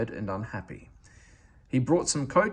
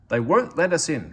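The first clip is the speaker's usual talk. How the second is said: loud cross complaint; cross hiss; 5 semitones higher, 7 dB louder than usual. A narrator's reading. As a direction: hiss it out, indignant. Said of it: "hissed the big engine crossly".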